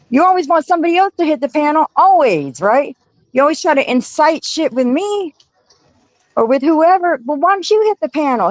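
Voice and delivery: demanding Meek hit the panel; calling out. Real, not acted.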